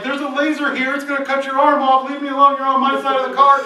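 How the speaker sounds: sibling snapping from the back seat; annoyed kid. Retold or imitated. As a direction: yell back like a cranky sibling. Other kid yelling back.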